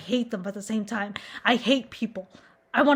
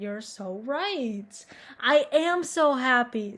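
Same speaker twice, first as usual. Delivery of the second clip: mock agreement; much slower than usual. Mock agreement with her inner voice.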